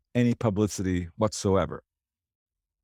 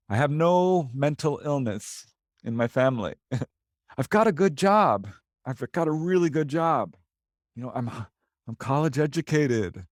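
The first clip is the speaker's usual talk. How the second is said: insistent protest; 4 semitones higher than usual. Retold or imitated. Retold witnesses insist they are sane.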